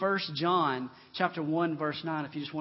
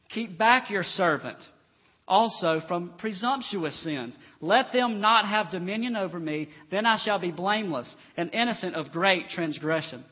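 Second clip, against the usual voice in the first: scripture proclamation; 5 dB louder than usual. Acted. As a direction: read the verse out with firm emphasis. Reads scripture from the pulpit.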